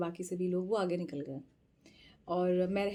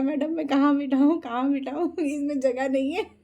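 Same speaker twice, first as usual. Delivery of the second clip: higher, louder exasperated protest; protesting driver; 5 semitones higher, 8 dB louder than usual. Retold or imitated. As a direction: throw up your hands, there is no room. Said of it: "कहता".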